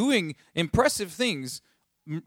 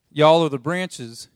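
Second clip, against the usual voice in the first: slow, louder Southern y'all; Southern Jesus; 7 dB louder, slower than usual. Pretend. Preacher repeating the joke line in a hammed-up Southern accent. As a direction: lean into the Southern Bible joke. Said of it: "if this was a Southern Bible".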